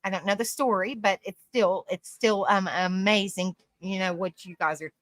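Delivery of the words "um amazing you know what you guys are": hiccups. Real, not acted. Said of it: "I got the hiccups".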